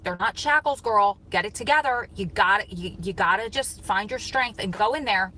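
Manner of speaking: mildly forceful, urging herself on; firm self pep talk. Retold or imitated. Telling herself to get it together outside the gym, firm pep talk.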